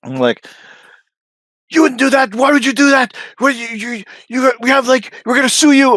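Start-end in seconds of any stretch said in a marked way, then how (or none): 1.7-5.9 high squeaky indignant voice; mock whiny threat. Mocking Danny threatening to sue, high whiny squeal. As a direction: parody a panicked threat.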